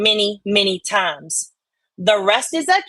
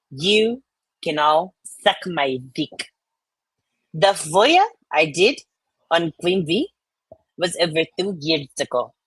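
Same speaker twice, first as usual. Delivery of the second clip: put-on Southern belle accent. Streamer reads a chatter's comment in a Southern belle accent. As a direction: read it like an offended Southern belle. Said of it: "It's the Southern one. Scarlett O'Hara".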